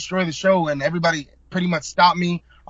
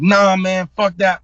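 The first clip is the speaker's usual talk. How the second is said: retold angry outburst; mock angry refusal; 3 semitones higher, 6 dB louder, slower than usual. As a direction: bark it back like he won't budge. Guy refusing angrily.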